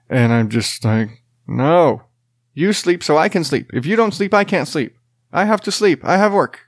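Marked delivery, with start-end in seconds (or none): 1.5-6.6 higher, desperate begging; pleading dad. Retold or imitated. Tired dad begging his toddler to nap, higher and desperate. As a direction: beg the kid to just sleep.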